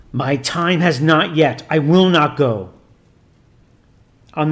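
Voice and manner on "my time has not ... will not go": demon exclaiming. Acted. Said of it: "the satanic being exclaimed".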